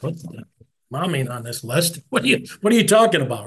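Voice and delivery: as if the list just made no sense; incredulous. Retold or imitated. Reacting to brother's thanks.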